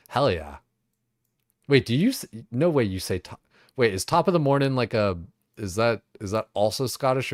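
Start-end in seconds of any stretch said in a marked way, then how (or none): 1.7-7.3 high, loud sudden realisation; louder, higher, wait-what disbelief; surprised. Real, not acted. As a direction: catch it mid-thought, startled.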